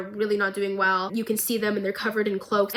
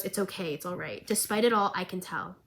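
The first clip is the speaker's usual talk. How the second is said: soft, hushed, comforting whisper; calm someone fading out, barely voiced; soothing whisper; 3 semitones lower, 8 dB quieter than usual. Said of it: "And she goes".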